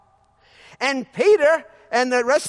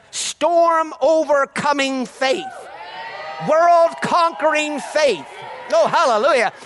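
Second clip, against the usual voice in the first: shouted proclamation; 5 semitones higher than usual. Real, not acted. Preacher shouts to the congregation in full fervour.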